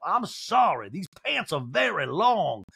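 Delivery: fussy drawl, dropping off at the end; Sutton. Retold or imitated. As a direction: complain in a put-on drawl. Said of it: "shuffling like an old grandma".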